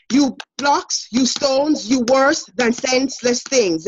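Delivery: "You blocks, you stones" with each beat stressed; iambic da-DUM rhythm. Shown as a demonstration. Teacher leads the class in the iambic rhythm. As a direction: tap out the da-DUM heartbeat. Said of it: "say it with the Dadom rhythm".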